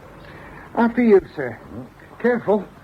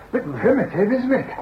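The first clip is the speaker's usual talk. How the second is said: laughing; 5 semitones higher than usual. Acted. Laughs while showing the kitchen.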